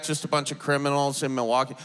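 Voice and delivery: quick, questioning repeat in your own voice; fast, doubting echo with a rise at the end; incredulous echo. Retold or imitated. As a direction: throw the claim back as a skeptical question. Throws uncle's words back in disbelief.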